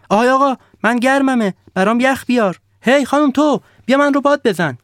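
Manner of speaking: high, loud and bossy snowman voice; a spoiled snowman yelling demands; shouting snowman. Acted. The snowman ordering the villagers about, high and loud. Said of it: "آدم برفی فریاد زد".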